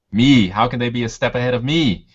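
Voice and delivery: incredulous, self-important protest; mock indignation. Player voicing his outwitted character's pride, mock indignant. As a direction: play up the wounded pride, lightly.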